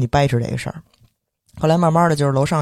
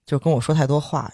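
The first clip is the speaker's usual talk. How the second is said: ordinary talk, nothing marked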